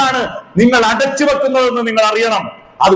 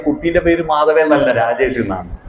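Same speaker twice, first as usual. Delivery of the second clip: lower, unruffled reply; calm correction; 6 semitones lower than usual. Retold or imitated. Man carrying the child corrects his companion, calm low voice. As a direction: answer low and composed, settling lower still.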